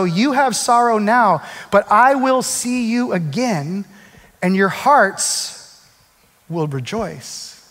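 slow, gentle and drawn out; comforting disciples, slow and tender; tender slow reading. Acted. Slow tender quote of Jesus.

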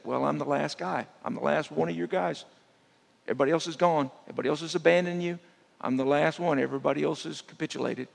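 mildly acted lament, rushing through the list; complaining Elijah. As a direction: lay out the lament like the last loyal man.

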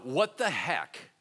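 slow, drawn-out "what the heck?"; mock stunned "what the heck". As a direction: stretch out "what the heck?" in amazement. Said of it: "everybody is like".

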